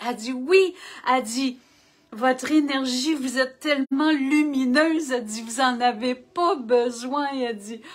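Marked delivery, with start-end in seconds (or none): 0.3-0.8 excited. Retold or imitated. Waitress quoted, delighted. 2.1-7.3 enthusiastic waitress. Retold or imitated.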